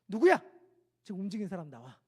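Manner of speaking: sudden loud bark, then a hard low order; angry demand. Retold or imitated. Drill officer demanding the recruit who moved. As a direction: snap the question out, then command coldly.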